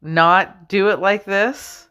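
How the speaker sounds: slow, gentle pleading request; pleading Jesus. Retold or imitated. Jesus asking his Father, slow gentle plea. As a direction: ask slowly, almost begging. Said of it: "He's like".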